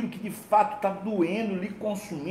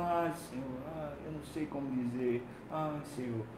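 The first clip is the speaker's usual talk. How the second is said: much softer, a half-breathed moan; imitated groaning prayer; 3 semitones lower, 11 dB quieter than usual. Preacher acting out his own wordless night prayer, a soft groaning plea. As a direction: mimic a tired plea to God. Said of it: "era simplesmente gemendo".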